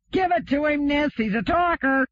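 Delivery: high, bright cheer from the crowd; egging on a brawler with glee; joyous shout. A narrator's reading. Crewman cheers on Nis in the fight, joyous shout. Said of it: "shouted joyously".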